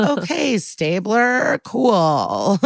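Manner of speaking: drawn-out sarcastic reaction; mock approval. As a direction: awkwardly humour someone who went too far.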